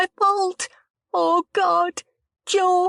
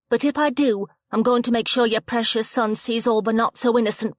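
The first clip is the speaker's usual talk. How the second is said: defiant threat; 3 semitones higher, 3 dB louder than usual. Acted. Rianne threatens Jo angrily.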